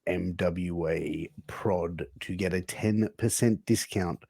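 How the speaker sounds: slow, spaced-out promo wrap-up; slow sponsor read. Real, not acted. Host stalling until Angel returns, slow ad read. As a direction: stretch out the promo code, easing down.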